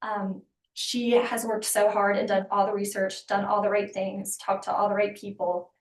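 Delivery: passionate, voice trembling a little; shaky voice. Real, not acted. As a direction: let the voice shake slightly. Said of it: "my voice is shaking 'cause I'm just passionate".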